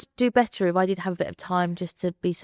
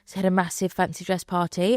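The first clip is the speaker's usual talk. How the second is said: ordinary delivery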